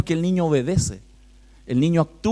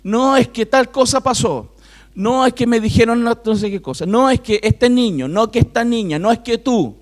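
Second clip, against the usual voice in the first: put-on higher, whiny child excuses; child making excuses to a parent, higher; imitating a child; 5 semitones higher than usual. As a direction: mimic a kid blaming everyone else. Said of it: "Qué es lo que los niños generalmente dicen".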